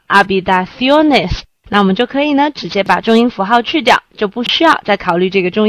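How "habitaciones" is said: "habitaciones" stressed on "cio", the next-to-last syllable. Shown as a demonstration. Teacher models the plural, "habitaciones" stressed on "cio". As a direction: keep the beat of "habitaciones" on "cio". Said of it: "它的重音本来就落在cio上面了".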